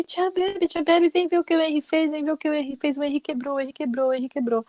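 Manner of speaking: put-on high-pitched child running to tell on his brother; tattling little boy. Small boy telling his aunt his brother broke something, tattling in a high voice. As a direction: imitate an excited small tattletale, high and repetitive. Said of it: "o pequeno, que é o Gerard [...] virou e falou assim".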